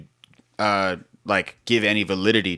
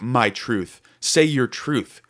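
mocking; much slower than usual. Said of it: "this whole thing, like".

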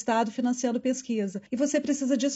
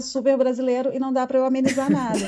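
laughing. Real, not acted. Laughing about her own accent.

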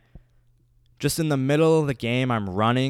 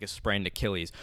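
usual speaking voice

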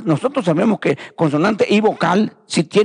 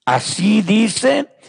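slow, measured Bible reading with drawn-out phrase endings; scripture reading; slower than usual. Real, not acted. Preacher reading Jeremiah's prophecy to the congregation, slow scripture reading. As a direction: read the verses out slowly and solemnly to the congregation. Reads the scripture passage aloud.

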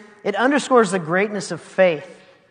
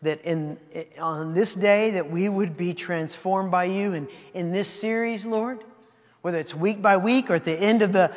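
prayer. Real, not acted. Closing prayer before sermon.

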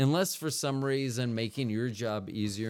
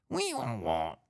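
siren noise. Pretend. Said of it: "I don't know why I keep saying, like, what the sound is".

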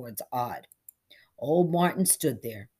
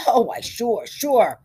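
loud, high, emphatic agreement; hearty assent; 6 semitones higher, 9 dB louder, slower than usual. A narrator's reading. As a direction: agree a little too readily. Barber agrees to keep secret.

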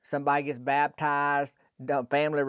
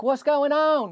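put-on much higher, louder bewildered old lady voice; confused old lady; 11 semitones higher, 4 dB louder, slower than usual. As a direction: play Millie baffled at the locked door. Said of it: "she's like".

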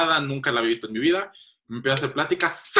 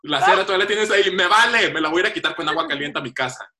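mock fed-up; 4 semitones higher, faster than usual. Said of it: "le dije".

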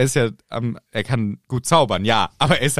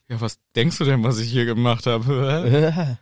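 lightly voiced Harry; slower than usual. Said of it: "er sagt so".

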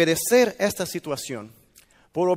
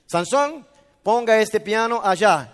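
mother calling out; 2 semitones higher, 5 dB louder than usual. Retold or imitated. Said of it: "la mamá de Sansón diciendo a él".

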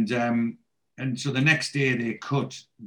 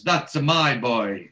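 mock Italian accent; 4 dB louder, slower than usual. Quotes Italian father cheering his son.

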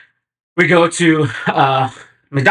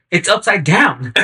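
slow stoned explanation; 5 semitones higher than usual. Retold or imitated. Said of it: "He's like".

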